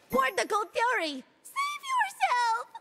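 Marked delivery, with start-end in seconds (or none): 1.5-2.7 urgent warning. Acted.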